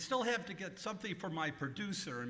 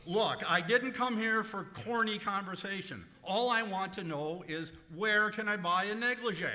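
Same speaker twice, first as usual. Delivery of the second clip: louder, impatient; annoyed; 3 semitones higher, 6 dB louder than usual. Acted. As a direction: demand an answer. Annoyed customer snaps at clerk.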